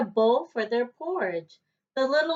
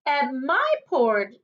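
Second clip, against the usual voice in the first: middle-sized voice; 4 semitones higher than usual. Acted. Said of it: "in her middle-sized voice".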